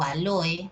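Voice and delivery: a-LO-e, stressed in the middle. Shown as a demonstration. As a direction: say aloe as a-LÓ-e. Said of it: "yo te digo".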